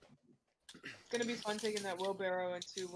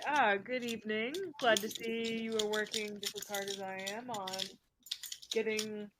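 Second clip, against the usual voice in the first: in-character greeting; 2 semitones higher, 5 dB louder than usual. Acted. Player voices character greeting.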